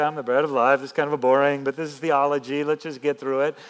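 mock casual. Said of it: "He didn't kind of just prance around".

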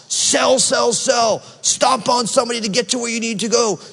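mock shouting boss, fast and driving; hammed-up yelling boss pushing sales; pushy boss. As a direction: bark orders like a greedy sales manager. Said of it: "We hear the voice of our boss".

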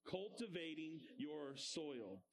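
slow call-and-response. Shown as a demonstration. Teacher leads children repeating the phrase, slow chant. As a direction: spell it out slowly so they echo. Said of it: "Say that with me".

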